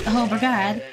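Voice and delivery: British-style BRIGADE with an 'ah' vowel; quick British-tinged echo of brigade; repeating British slip. Retold or imitated. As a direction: say brigade as bri-GAHD, echoing a British accent. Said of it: "I turned British for a second".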